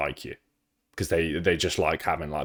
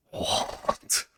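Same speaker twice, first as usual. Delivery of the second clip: stunned what; 5 dB quieter than usual. Retold or imitated. Retold reaction to the police.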